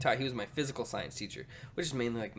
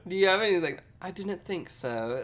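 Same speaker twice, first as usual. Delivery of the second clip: dry deadpan teacher; 3 semitones higher, 4 dB louder, slower than usual. Retold or imitated.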